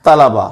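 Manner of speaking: तलबा as ta-la-ba; correct pronunciation. Shown as a demonstration. Teacher giving the plural for students, तलबा as ta-la-ba. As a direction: say तलबा in three syllables. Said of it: "जमा बोला जाता है वो है".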